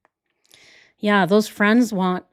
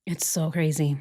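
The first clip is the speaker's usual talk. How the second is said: hushed disbelieving whisper; 3 semitones lower, 6 dB quieter than usual. Real, not acted. Reacting to Chris's red flags, whispered. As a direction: breathe it in disbelief.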